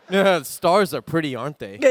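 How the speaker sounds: put-on American accent, easy and trailing off. Shown as a demonstration. Showing the panel his impression, put-on American accent. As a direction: play an American saying it. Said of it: "An American".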